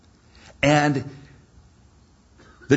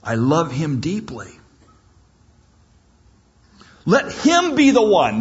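pleading. Acted. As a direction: plead for your firstborn. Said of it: "he realizes".

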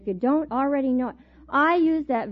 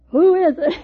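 brave call; 5 semitones higher, 8 dB louder than usual. Retold or imitated. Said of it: "My bravest voice was".

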